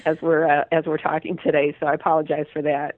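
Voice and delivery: stuffy voice from a cold; head cold. Real, not acted. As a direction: talk through a head cold. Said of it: "suffering with a head cold today".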